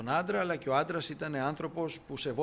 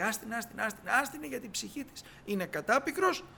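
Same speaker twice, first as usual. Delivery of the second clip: higher, urgent repeated command; voicing Elisha; 8 semitones higher than usual. Elisha tells Gehazi to leave the woman alone, higher and urgent. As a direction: hold the servant back quickly.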